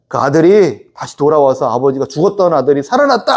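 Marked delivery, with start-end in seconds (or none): 2.0-3.3 father calling out that his son is alive; joyful father's shout. Retold or imitated. A father calling out to the household, joyful shout. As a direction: ring it out like a proud announcement. Father announces son's return.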